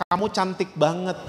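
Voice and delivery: put-on soft, tender words to a baby; softly retold fatherly compliment; tender praise. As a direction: say it gently to your little girl. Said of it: "saya liatin matanya".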